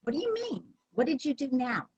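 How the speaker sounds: mock exasperation, starting high-pitched; exasperated tone. Shown as a demonstration. Trainer imitates staff blaming a customer, exasperated. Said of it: "the tone of your voice".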